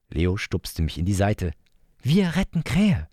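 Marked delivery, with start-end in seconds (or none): 2.0-3.1 hohe, langsame Kinderstimme, Krähe betont; kleiner Bruder. Acted. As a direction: eindringlich wie ein Kind wiederholen. Leo wiederholt als Kind. (hohe, gedehnte Kinderstimme)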